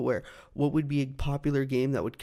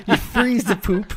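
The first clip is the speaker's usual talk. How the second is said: higher, louder, slow, giggling; laughing; 9 semitones higher, 5 dB louder, slower than usual. Real, not acted. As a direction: giggle it out slowly. Laughing through gross story.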